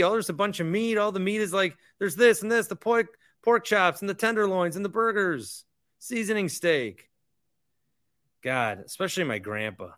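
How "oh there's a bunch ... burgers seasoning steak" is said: excited unboxing. Acted.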